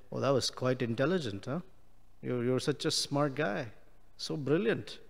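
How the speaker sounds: soft, dry mock compliment; sarcastic praise. Shown as a demonstration. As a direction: praise the fool with a smirk. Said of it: "when you're sarcastic with someone".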